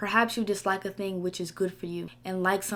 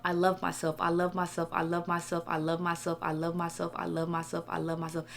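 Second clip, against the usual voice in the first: softly repeated mantra, fading gently; repeated affirmation; 2 semitones lower, 3 dB quieter than usual. Shown as a demonstration. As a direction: say it over and over, quieter each time. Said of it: "Keep saying it".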